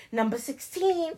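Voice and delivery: hushed, secretive announcement; mock whisper. Joking about a body count being announced, mock whisper. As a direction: drop right down as if secretly whispering. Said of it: "It's not like the pussy whispering".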